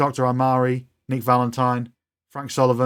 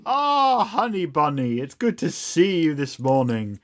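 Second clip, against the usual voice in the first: doting robot nanny, high opening swoop; Miss Nanny; 5 semitones higher than usual. Acted. Robot nanny greeting an old friend, gushing and high. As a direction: coo a delighted, sing-song hello. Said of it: "She turns to you and says".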